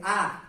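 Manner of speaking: plain level "ah" as the base syllable; Vietnamese "ah". Shown as a demonstration. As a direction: say "ah" flat and open. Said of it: "we say".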